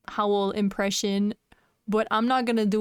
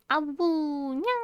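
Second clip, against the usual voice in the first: wolf voice; 6 semitones higher, slower than usual. Pretend. Howling and meowing on stream.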